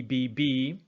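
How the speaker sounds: B, B, a short lip closure; drilling the B sound; letter sound. Shown as a demonstration. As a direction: tap out the B sound twice. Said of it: "very similar to B".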